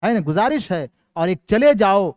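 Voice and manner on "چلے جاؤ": short, louder order; command. Shown as a demonstration. Teacher contrasting a command with a request, louder. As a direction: snap out the command to leave. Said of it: "اس کو حکم کہا جاتا ہے".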